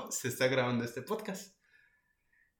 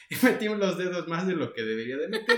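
laughing; 4 semitones higher, 5 dB louder than usual. Real, not acted. Laughs telling cut fingers.

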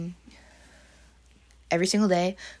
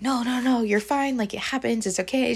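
higher-pitched quick reassurance; lightly voiced reassurance; retold calming down; 5 semitones higher than usual. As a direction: imitate a coworker soothing someone frantic. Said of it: "She's trying to calm me down".

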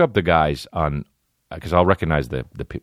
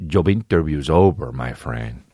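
movie bad guy; 2 semitones lower, slower than usual. Quoting the villain from Only the Strong, light menacing imitation. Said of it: "And he says".

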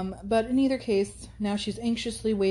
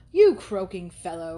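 louder, slower jeer; crying out; 6 dB louder, slower than usual. Acted. Thorpe mocks Morland's doubts with a loud cry. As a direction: scoff at him loudly. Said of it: "cried Thorpe".

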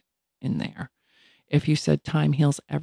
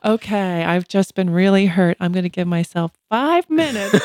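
playful, lightly raised pitch; mock self-talk; 3 semitones higher, 4 dB louder than usual. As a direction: joke resolve with a laugh waiting behind it. Jokey self-talk with microwave timer.

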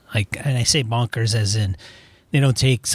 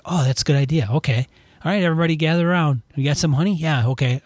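a touch higher, eager and naive; imitating gullible players; 5 semitones higher, faster than usual. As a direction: play the trusting party falling for it. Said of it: "Where people are like".

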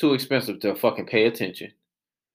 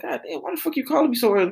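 mock groggy complaint; 13 semitones higher, faster than usual. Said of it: "We like".

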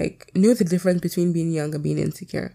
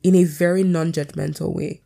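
talking through a choke in the throat; words caught by a choking throat. Real, not acted. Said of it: "the way I'm choking is actually killing me".

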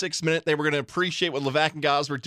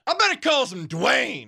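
redneck fan voice; 7 semitones higher than usual. Pretend. Mock fan voice.

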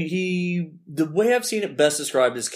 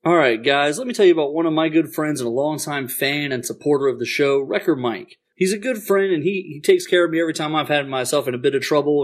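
radio ad read. Acted. Sponsor read on the show.

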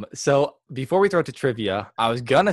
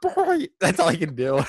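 failed Donald Duck attempt; 5 semitones higher than usual. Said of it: "I can't even, like, say a word".

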